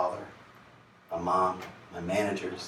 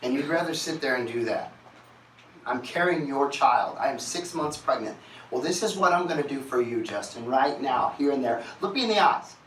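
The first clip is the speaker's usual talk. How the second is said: rising, louder demand ending in a high shout; angry wife; 5 semitones higher, 5 dB louder than usual. Retold or imitated. Pregnant wife confronting her partner, rising to an angry shout. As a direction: build from firm to a shouted plea. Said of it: "She goes".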